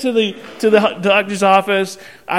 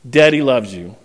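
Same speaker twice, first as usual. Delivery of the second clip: tender; 5 semitones lower than usual. Retold or imitated. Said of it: "I say something to him".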